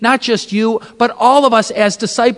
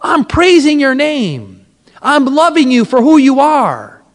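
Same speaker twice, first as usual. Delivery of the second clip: raised, pleading cry to Jesus; higher-pitched, earnest retold outcry; retold screaming out; 4 semitones higher than usual. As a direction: plead upward, drawing out the praise. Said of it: "I was screaming out".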